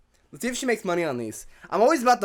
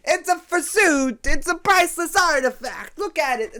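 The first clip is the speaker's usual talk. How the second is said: high, loud, hammed-up unveiling; mock excitement; 9 semitones higher, 5 dB louder than usual. Host mocking her museum-like fursuit display, loud mock excitement. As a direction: proclaim it like a priceless exhibit. Mocks museum-style showing off, louder take.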